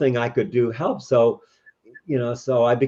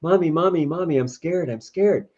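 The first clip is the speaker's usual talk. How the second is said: put-on higher-pitched, pleading little kid; scared child; 6 semitones higher than usual. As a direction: lightly act a frightened child calling for Mommy. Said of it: "the child is scared and runs back".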